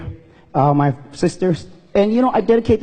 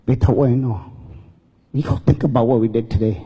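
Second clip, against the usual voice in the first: solemn father; 5 semitones lower than usual. Retold or imitated. Dad's solemn advice, retold emotionally.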